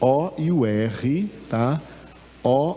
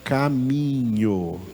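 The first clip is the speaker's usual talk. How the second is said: slow stress; slower than usual. Shown as a demonstration. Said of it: "o netivati é".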